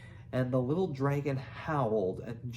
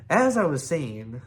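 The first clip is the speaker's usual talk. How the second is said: pompous; 2 semitones higher, 7 dB louder than usual. A narrator's reading. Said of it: "said Stoik the Vast".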